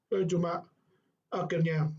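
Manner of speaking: ordinary delivery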